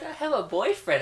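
lightly voiced Chloe bragging; smitten brag. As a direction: show off the news. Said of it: "Voices were spot on".

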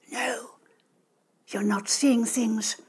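put-on soft, slow old woman whisper. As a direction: hush it like a kind old lady. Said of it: "the old lady whispered".

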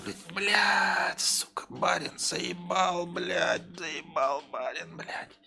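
soft, high grumbling curses; muttering under breath. Acted. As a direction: grumble so the master can't hear.

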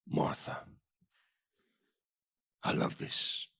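whispered, tender repeat of the name; hushed name-calling. Retold or imitated. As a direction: call the name again in a whisper. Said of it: "he said to Martha".

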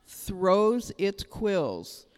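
each word drawn out slowly for weight; slow it right down, let it land; very slow emphasis. Shown as a demonstration. Pastor repeating the porcupine point, very slowly. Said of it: "repeated slowly".

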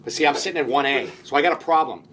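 lightly imitated fast-talking movie star; a hint of an actor's rambling patter, thinking aloud; Vince Vaughn. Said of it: "he talks like this".

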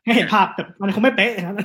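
light laugh running through the words; laughing concession. Real, not acted. Laughingly concedes his comparison is rough. (พูดปนหัวเราะ)

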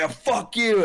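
high, loud mock yell; hammed-up angry holler; yelling back, imitated. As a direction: hurl it back like a street heckler. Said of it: "turned around to yell back".

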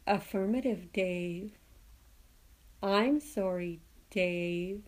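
monotone, creepy machine voice; soft, slow, level computer menace; HAL. Acted. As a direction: deliver it as a calm, creepy machine. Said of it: "it has this monotone creepiness".

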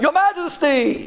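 calling out. Acted. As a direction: cry out for the king's attention. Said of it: "the tongue screams out".

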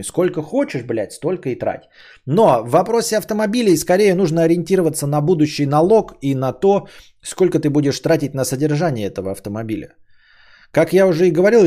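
ordinary talk

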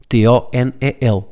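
slow, each letter of "T O N E L" said apart; spelled out letter by letter. Shown as a demonstration. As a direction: spell "T O N E L" out one letter at a time. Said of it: "quando acaba em L é sílaba tónica".

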